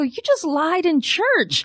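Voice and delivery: high, slow, giggling accusation; laughing whisper-tease. Retold or imitated. Grandson scolding grandma in church, laughing. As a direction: tease her through a laugh. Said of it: "I just turn to my grandma and go".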